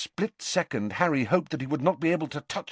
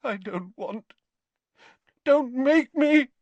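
frightened; 13 semitones higher, 3 dB louder than usual. A narrator's reading. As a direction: plead like a terrified old wizard. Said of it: "Dumbledore frightened like this".

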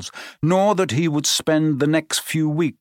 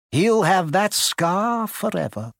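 Dumbledore; 6 semitones higher than usual. Acted. Dumbledore speaks in story.

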